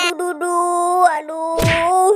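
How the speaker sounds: cartoon moaning complaint; distressed whine.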